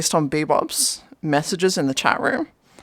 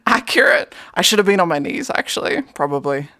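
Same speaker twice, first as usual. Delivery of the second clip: whisper. Real, not acted. Laughing aside.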